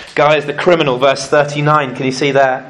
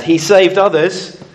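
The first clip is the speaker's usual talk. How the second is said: sneering; 3 dB louder than usual. Acted. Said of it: "the rulers there sneered at him".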